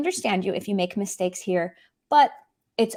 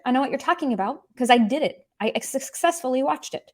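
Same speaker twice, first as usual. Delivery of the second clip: a mock-proud high "yeah, I already watched it"; 3 semitones higher, faster than usual. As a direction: brag lightly that it's done. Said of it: "And you wanna be like".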